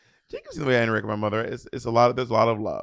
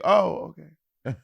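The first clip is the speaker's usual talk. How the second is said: mom's voice; 5 semitones higher, much slower than usual. Retold or imitated. Mom answers child's promise to hang out, mock put-out. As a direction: imitate a mother backing down. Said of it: "She goes".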